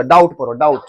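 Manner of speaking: डाउट as plain "dowt", no b; silent b. Shown as a demonstration. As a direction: leave the b out of डाउट. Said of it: "बी को silent है". (डाउट में 'ब' चुप)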